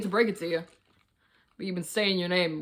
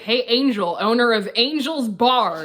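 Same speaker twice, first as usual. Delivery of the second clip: retold announcement; 3 semitones higher, 6 dB louder than usual. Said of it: "her sister was like".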